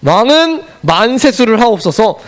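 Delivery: "왕은 만세수를 하옵소서" drawn out slowly and deliberately; slow it down, every syllable weighed; slow solemn reading. Shown as a demonstration. Teacher repeats the greeting to the king for children, slowly. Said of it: "자".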